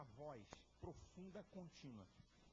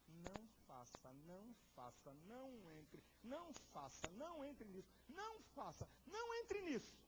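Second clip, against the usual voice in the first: inner warning; 7 semitones higher than usual. Acted. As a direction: plead harder each time. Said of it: "alguma coisa dizendo assim".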